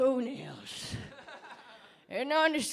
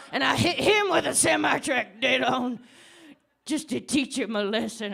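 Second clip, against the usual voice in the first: loud laughing confession; 6 dB louder than usual. Acted.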